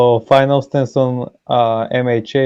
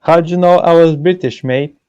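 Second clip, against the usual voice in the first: higher, louder mock British meme line; jokey British accent, higher and louder; 6 semitones higher, 4 dB louder than usual. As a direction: ham up a British joke ad voice. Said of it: "they show a picture".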